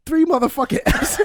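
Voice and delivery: high-pitched mock-outraged outburst; hammed-up indignant announcement; retold outraged mom. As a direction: imitate an exasperated mother, laughter creeping in. Retelling mom's angry report.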